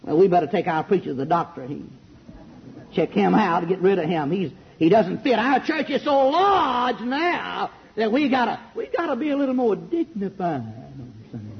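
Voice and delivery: lightly voiced prim deacons; a hint of a stuffy deacon; mock stuffy deacons. Preacher mocks sophisticated deacons, lightly voiced. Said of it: "deacons who drop their heads".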